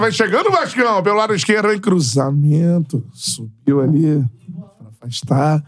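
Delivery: mock radio match narration; commentator voice. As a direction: call the play like a broadcaster. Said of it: "eu já narrando".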